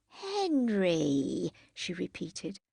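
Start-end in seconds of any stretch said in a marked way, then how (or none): 0.1-1.5 "Henry" drawn out very distinctly; quite distinct. A narrator's reading. Tipsy Jackie repeats "Henry" to him, quite distinctly. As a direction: spell out "Henry" clearly in two long syllables. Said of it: "quite distinctly".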